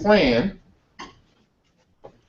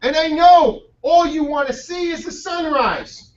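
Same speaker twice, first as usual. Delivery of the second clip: amused teasing; 6 semitones higher than usual. Retold or imitated. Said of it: "He says".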